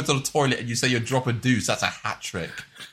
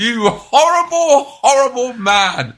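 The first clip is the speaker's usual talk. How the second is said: laughing mock scold; 9 semitones higher, 6 dB louder, slower than usual. Real, not acted.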